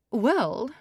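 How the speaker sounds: very high, loud, slow scolding; shrill-pitched society mother; fussy matriarch. Acted. Mrs Evers voice.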